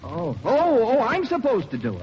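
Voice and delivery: high, loud dawning realization; sudden eager astonishment; delighted surprise. Acted. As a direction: voice leaps up at unexpected good news. Suddenly learns the part is his.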